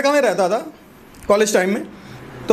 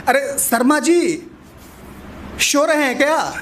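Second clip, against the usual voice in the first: slow, drawn-out Bihari calling, शो for सो; Bihari wife's accent; 5 semitones higher, slower than usual. Retold or imitated. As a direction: lean into the Bihari lisp on शो. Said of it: "उनकी बीबी बोलती है".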